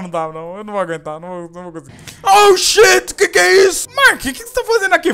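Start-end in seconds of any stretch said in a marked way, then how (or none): 2.2-5.1 high, loud shriek of fright; startled shout. Real, not acted. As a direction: scream at the ghost popping up. Ghost appears, startled shout.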